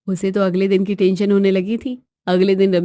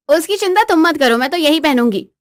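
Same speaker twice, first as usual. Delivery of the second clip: defiant wife; 4 semitones higher, 3 dB louder than usual. Acted. Wife refuses husband's request.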